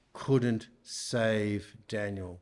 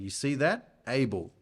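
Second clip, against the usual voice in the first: able leaned on with weight; stress on able. Shown as a demonstration. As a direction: press down on the word able. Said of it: "Emphasis on the word able".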